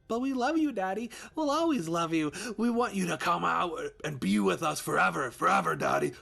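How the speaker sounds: put-on very high, loud, distorted children's voices; ghostly kids luring, sweet and wrong; eerie children. Ghost children luring daddy, high and eerie.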